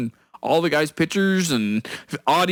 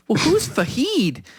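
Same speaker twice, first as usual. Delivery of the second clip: put-on higher, slow old-lady question; imitated old lady, drawn out and pitched up; little old lady; 6 semitones higher than usual. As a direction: play an old lady innocently probing. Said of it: "changes his voice to a little old lady's voice".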